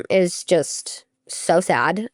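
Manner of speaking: sad whisper. Real, not acted. Telling the host about teammates' horror stories, whispered sadness. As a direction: drop the voice to a whisper of grief.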